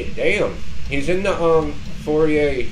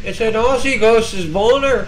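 slow, high mock Australian accent; 10 semitones higher, 4 dB louder than usual. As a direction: drawl it like an Aussie, up high.

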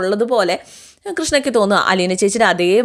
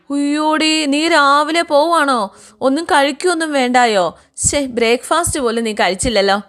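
surprised fuss; 7 semitones higher than usual. A narrator's reading. Gracamma surprised Alina leaves early.

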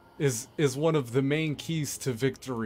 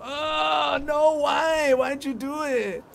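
shrill-pitched mock cry of protest, much higher; high mock wail; 11 semitones higher, slower than usual. Gamer protesting an enemy's move, high mock wail. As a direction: squeal it like a hurt cartoon. Mock distress at game event.

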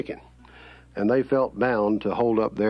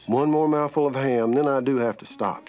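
many relatives voiced, higher and sing-song, with long mm's of pleasure; Southern family at table; 4 semitones higher than usual. Relatives passing dishes round a Southern supper table, crooning over the food. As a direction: swap between aunts and uncles praising the food, savoring every bite. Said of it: "they sounded like this".

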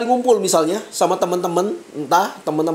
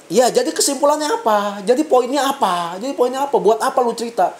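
retold needling questions, pitched a bit higher; sarcastic; 4 semitones higher than usual. Cell group leader questioning a member's aimless story, sarcastic. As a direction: imitate a leader pressing for the point. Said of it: "dengan nada nyindir".

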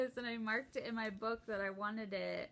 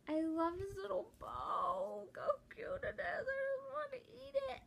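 high, squeaky gush over something adorable; near-crying with delight, pitched way up; cute squeal; 11 semitones higher than usual. Real, not acted. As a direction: squeal like it's too cute to bear. Gushing over a cute bow.

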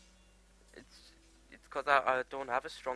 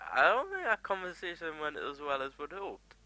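mock understatement; 4 semitones higher than usual. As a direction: repeat it in a put-on higher voice. Repeats remark in put-on higher voice.

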